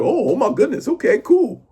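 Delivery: very high, exaggerated mock Black American accent; put-on Black accent. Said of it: "That's my black accent".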